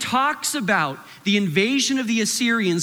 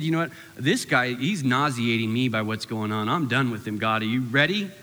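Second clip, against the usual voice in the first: fed-up fish; 7 semitones lower than usual. Retold or imitated. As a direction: play the sick, fed-up fish telling God it's done. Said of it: "the fish ... said".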